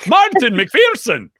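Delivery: loud, high, drawn-out mock-Scottish flourish; salted Scottish accent. Shown as a demonstration. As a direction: belt the name out slowly in a hammed-up Scottish accent. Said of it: "put a little salt on it".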